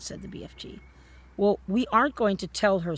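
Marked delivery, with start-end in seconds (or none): 1.4-3.0 excitedly. A narrator's reading. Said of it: "said Sophie excitedly".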